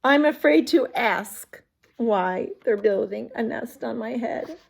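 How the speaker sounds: lightly voiced cheerful Piggy. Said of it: "Piggy's all like".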